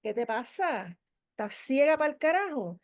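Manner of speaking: lightly imitated gruff man mocking her; a hint of a rude man sneering; mildly voiced nasty taunt; rude male voice. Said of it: "en este tono".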